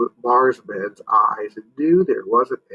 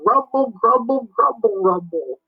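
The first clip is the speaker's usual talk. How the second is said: monster growl; 10 semitones higher than usual. Acted. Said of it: "and growled".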